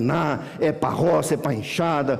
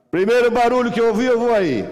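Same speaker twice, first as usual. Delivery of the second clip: loud, high yell across the house; imitated dad bellowing from the bedroom; father's shouted warning; 6 semitones higher, 5 dB louder than usual. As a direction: holler a threat like an angry father. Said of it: "Aí o pai gritou lá".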